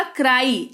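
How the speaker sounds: क्राई as "krai", the ending like English "eye"; teaching pronunciation of क्राई, Y sounded "ai"; final Y as AI. Shown as a demonstration. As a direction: say क्राई with a clear long "ai" ending. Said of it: "उच्चारण क्या हो जाएगा".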